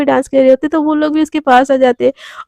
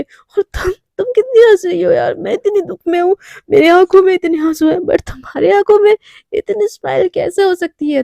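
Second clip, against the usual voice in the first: higher, tearful wail; drunken crying complaint; 5 semitones higher than usual. Acted. Drunk Radhika crying at smiling Devika, tearful and high. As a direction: whine through fake tears.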